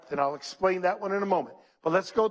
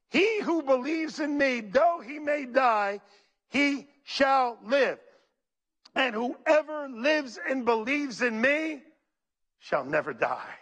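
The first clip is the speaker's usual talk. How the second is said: solemn reading; 5 semitones higher, slower than usual. Acted. Reads Jesus' words slowly.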